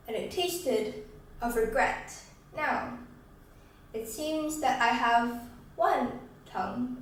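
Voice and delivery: slow recital with long pauses; subdued, deliberate spoken-word close; somber poem ending. Acted. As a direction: let each phrase land, then leave silence.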